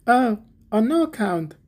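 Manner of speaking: high-pitched, hasty protest from little Hans; crying out. A narrator's reading. Hans protests as the miller offers to do it himself, crying out. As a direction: exclaim it high, as an eager objection. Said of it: "cried little Hans".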